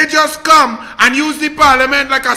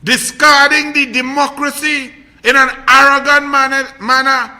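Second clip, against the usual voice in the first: angry rant; 5 dB louder than usual. Real, not acted. Indignant rant against the government.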